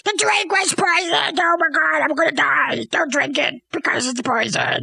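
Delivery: whiny death wail, sinking as it goes; mock dying lament. Dying queen warns Hamlet about the drink, mock wail.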